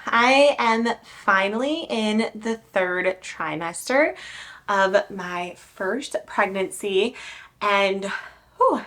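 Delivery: breathy, winded and puffing; out of breath. Real, not acted. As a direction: talk while catching your breath. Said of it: "I'm a little out of breath".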